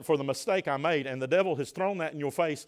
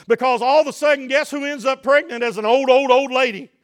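high, loud sermon delivery; fervent preaching; 9 semitones higher, 8 dB louder than usual. Real, not acted. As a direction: preach it hard, punching each phrase. Preaching at full force.

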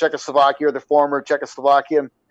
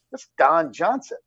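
slow, understated realization; retold stunned aside; 7 dB quieter, slower than usual. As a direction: say it to yourself in disbelief. Retold first sighting, to himself.

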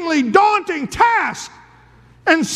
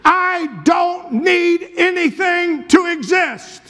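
higher and ringing, a proclaiming God; preacher voicing God from the burning bush; 4 semitones higher than usual. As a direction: declare it as the eternal I AM. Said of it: "this voice was saying".

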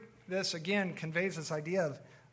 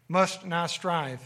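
slow emphasis; 5 dB louder, much slower than usual. Acted. Reading scripture, slowed phrase.

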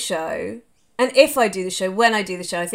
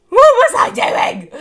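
even higher, loud and slow; louder exasperated outburst; 10 dB louder, slower than usual. Real, not acted. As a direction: push the disbelief further than the first cry. Repeats the outburst, even stronger.

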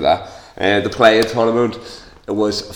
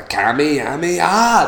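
mock battle cry; 7 semitones higher, slower than usual. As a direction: yell it like an anime power shot. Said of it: "That's what he should say when he shoots it".

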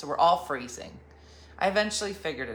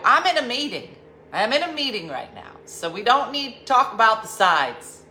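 exasperated; 6 semitones higher, 8 dB louder than usual. Retold or imitated. Cutting off caller, exasperated.

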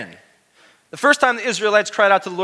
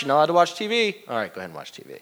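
inconsistent parent; 4 semitones lower, much faster than usual. Pretend.

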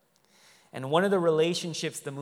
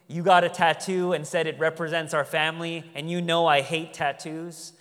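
higher, louder nagging rant of a fed-up mother; scolding immigrant mom; 5 semitones higher, 7 dB louder than usual. Retold or imitated. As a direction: list her grievances like a scolding mom, voice up and loud. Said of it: "begins to list off everything the daughter does to piss her off".

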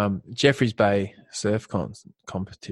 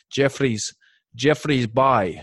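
put-on slow, drawn out "Jeffreys Bay" in a poor South African accent; a terrible South African try at "Jeffreys Bay"; deliberately bad South African accent, slowly; much slower than usual. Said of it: "I had a terrible, terrible".

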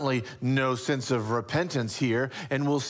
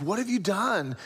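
higher, falling, pointed question; grave reproach; 6 semitones higher than usual. Shown as a demonstration. God asking Cain to pause and confess, reproachful. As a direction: ask it knowingly, landing with a fall. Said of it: "No, not like that at all. He's like".

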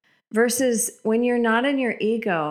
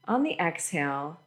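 guided meditation. Acted. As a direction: lead them gently into breathing. Leads a guided breathing meditation.

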